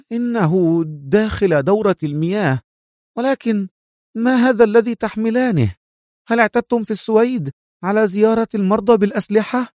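mock her captors while hiding fear; feigned composure. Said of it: "محاولة التظاهر بالتماسك". (تظاهر بالتماسك ساخر)

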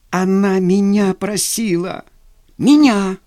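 slow, loud, high cry stressing меня; indignant shout. Acted. Fyodor refusing his brother, loud indignant shout on меня. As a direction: fling меня at him in outrage.

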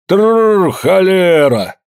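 a hoarse peasant shouting at his horse; rolled brrr to halt the horse, then curse; carter calling whoa. A narrator's reading. Father halting the horse in the yard, hoarse shout. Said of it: "простуженный голос Евдокима".

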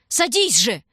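urgent command. A narrator's reading. Shurka ordering his sister onto the sled, urgent command. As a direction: make her get on now. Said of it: "торопил он её".

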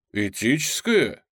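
slow, incredulous echo of этическое; mocking question. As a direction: repeat этическое back with a scoff. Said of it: "Пузищев прыснул".

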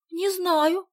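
high, rising, caught off guard; suddenly realizing. A narrator's reading. Sonya realizing she lacks the address, caught off guard. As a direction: remember with a little jolt. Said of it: "спохватилась Соня".

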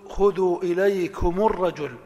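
إليكم الرجل said as ilaykumu rrajul; إليكمُ الرجل بالضم; linking damma demo. Shown as a demonstration. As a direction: carry u from the mim into الرجل. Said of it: "نقول".

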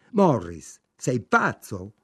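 alarmed cry at her husband; shouted at husband. A narrator's reading. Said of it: "gridò Ida". (gridato allarmata al marito)

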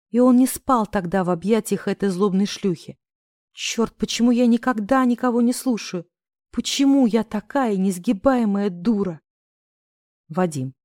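usual speaking voice

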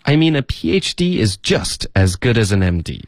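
linked sentence with "just" punched; "just" stressed, the words after it run together; emphatic just as good. Shown as a demonstration. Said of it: "他想要强调就这么好".

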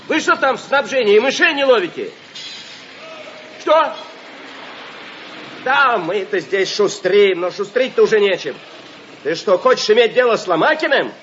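shouting into a crackly field phone; old crank field telephone. Acted. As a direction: yell down a bad phone line. Shouting down a bad phone line. (громко в трубку полевого телефона)

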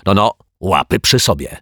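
a touch of snarl; grumpy detective warns the other off, mildly growling. Acted. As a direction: snap at him to keep his hands off. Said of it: "warknął Martwiak".

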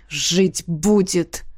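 низкое медленное ворчание; буркни устало; буркнул. Acted. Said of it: "буркнул Джаф". (Джаф избитый бурчит о поверженном противнике)

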